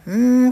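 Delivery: うーん as a long hum through closed lips; closed-mouth M. Shown as a demonstration. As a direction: hold うーん as a pure, loud mmm. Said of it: "口をしっかり閉じた状態".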